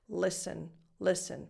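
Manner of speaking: "listen" with nothing added between S and N; effortless schwa. Shown as a demonstration. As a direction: slide from the S to the N in "listen", vowel left undefined. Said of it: "without moving your mouth".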